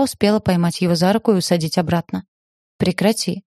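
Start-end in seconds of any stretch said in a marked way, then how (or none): none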